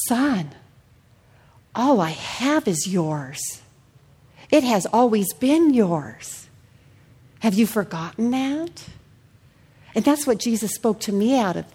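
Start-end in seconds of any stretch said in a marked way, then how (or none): 0.1-8.8 slow, tender reassurance; gentle father. Acted. Pastor voicing the father answering his older son, slow and tender. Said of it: "And the father said".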